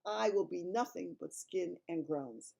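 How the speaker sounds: big friendly giant voice; kindly giant voice; BFG giant voice. Acted.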